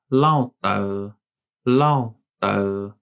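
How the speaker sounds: careful Green Hmong demo; Hmong word. Shown as a demonstration. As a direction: say "lao tau" clearly, in Hmong tones. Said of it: "The word in Green Hmong is".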